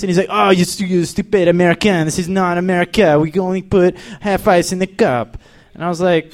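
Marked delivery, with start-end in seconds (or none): 0.3-5.4 snooty French worker imitation with accent; mock French accent. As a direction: scold in a put-on French accent. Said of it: "a French McDonald's".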